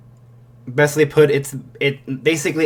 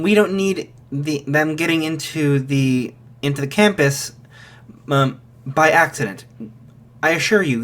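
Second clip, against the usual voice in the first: a hint of a polite official reassuring; lightly voiced gatekeeper, calm; reassuring guard voice; 2 semitones higher than usual. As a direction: gate voice reassures the mother she is safe, lightly voiced. Cyclops voice reassures the mother.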